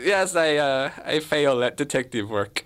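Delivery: lightly put-on German accent; hint of a hammy German accent; German detective. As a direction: play an amateur German detective on surveillance. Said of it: "I'll play the German detective".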